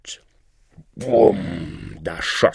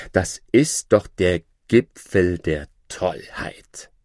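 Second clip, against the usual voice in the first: outraged cry; slower than usual. Acted. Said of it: "rief der gelehrte Mann".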